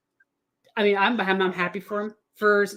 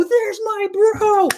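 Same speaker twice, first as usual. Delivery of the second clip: slow, high, stretched "There's my bro"; fan shout; 12 semitones higher, 5 dB louder, much slower than usual. Retold or imitated. Fan cheering her favorite player's touchdown, stretched high shout. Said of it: "a fun thing to shout".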